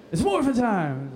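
slow, lightly acted rallying call; morph call. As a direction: draw out the transformation call. Re-enacting repeated takes of morph call.

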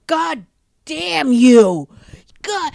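retold yell. Angry Man tangled in the dog leash, shouting at the jogger. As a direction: bark it like the angry neighbor. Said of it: "And he just yelled at me".

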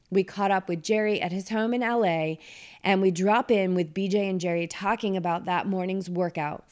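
scripted presenter read, clearly announced; podcast host introduction. Acted. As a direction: introduce the next guest to your listeners. Host introduces next guest and episode.

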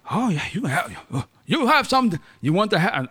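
host inviting a guest in, mock Asian accent. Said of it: "I don't know why I'm doing the Asian thing".

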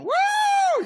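a wild, high, loud whoop; mock whoop. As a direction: whoop it up like a reckless snake handler.

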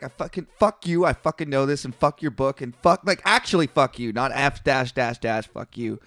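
worked-up retold rant, easing off. Podcaster recalling his reaction to a book, worked up. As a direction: rant it out, then run out of steam. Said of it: "I'm all worked up".

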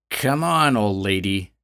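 put-on menacing taunt at the old lady; growl. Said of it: "growled at her".

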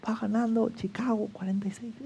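hushed whisper of the football score. Retold or imitated. Friend whispering the score in the church pew, hushed whisper. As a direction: sneak the score in a whisper so no one hears.

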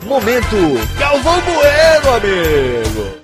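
lisp, slushy sh for s on Galvão. Real, not acted. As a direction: say it with a tongue-tie lisp. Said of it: "o único locutor de língua presa".

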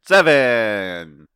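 big loud falling reveal; game show host. Pretend. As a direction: announce the number like a prize. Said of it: "said it like a game show host".

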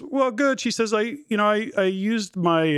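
imitated elderly mom. Ninety-year-old mom explaining her bowling, imitated in high voice. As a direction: lightly put on Mom's high voice.

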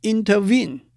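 intervene, stress the end; light-light-heavy stress. Shown as a demonstration. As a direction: build to the last syllable of intervene. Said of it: "是轻轻重".

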